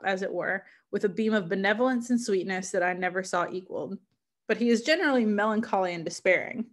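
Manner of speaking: measured, literary read-aloud; story narration. Acted. Reader sharing Frankenstein with listeners, story narration. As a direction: read it as an explorer's letter, evenly phrased.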